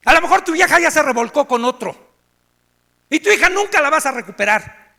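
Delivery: group leader scolding a crying newcomer; stern scolding. Retold or imitated. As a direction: tell him off, no sympathy. Leader scolds him from tribune.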